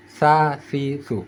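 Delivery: "Sa, si, su" as TH of "thin"; tongue tip out, root down on "Sa, si, su"; thin tha. Shown as a demonstration. Teacher closing the contrast, "Sa, si, su" lisped lightly. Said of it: "tekan ke bawah pangkal lidah".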